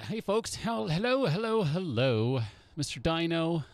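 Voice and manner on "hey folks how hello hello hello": high put-on greeting, settling by the end; joke "normal" voice. Shown as a demonstration. Streamer showing how he normally speaks, high joke voice. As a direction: greet folks in a silly raised voice. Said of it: "that's how I normally speak".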